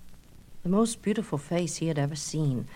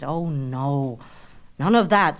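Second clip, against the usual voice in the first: sharp, loud on none of that; pushing away; 3 semitones lower, 4 dB louder, slower than usual. Acted. Narcissus pushing Echo away, sharp and loud. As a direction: shove her off with the words. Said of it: "said Narcissus, shoving her away".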